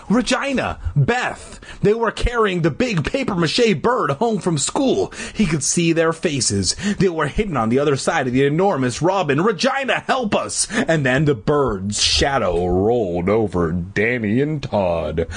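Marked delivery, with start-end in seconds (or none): 0.1-1.6 high-pitched mild frantic call. A narrator's reading. Danny calling the girls carrying the robin, frantic call. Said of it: "he frantically called out". 9.4-10.7 high, urgent call for help; cry for help. A narrator's reading. Boy in worm's grip calling friends, urgent plea.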